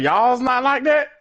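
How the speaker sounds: put-on high, slow, incredulous girlfriend voice; mock surprised girlfriend. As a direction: ask as if it's obvious. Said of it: "And she was like".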